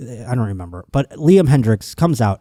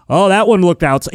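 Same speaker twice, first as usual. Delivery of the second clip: higher-pitched mock needling; chirping; 5 semitones higher than usual. Announcer chirping the batter about the pitch, mildly heckling. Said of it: "kinda chirping him".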